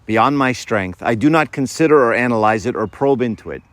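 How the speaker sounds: unhurried, devout quoting; reverent quote reading. Acted. Reciting quote slowly, reverently.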